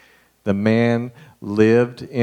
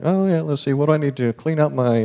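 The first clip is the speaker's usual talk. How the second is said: higher, breezy busy-looking voice; mock distracted driver; 6 semitones higher than usual. Driver avoiding a beggar at the light, lightly breezy. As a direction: pretend to be suddenly busy. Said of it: "you've got like".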